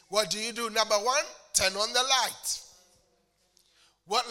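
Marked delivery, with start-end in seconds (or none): none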